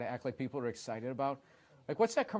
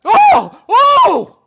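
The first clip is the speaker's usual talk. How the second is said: mock amazement; 21 dB louder, slower than usual. Mocking amazed VR commercial.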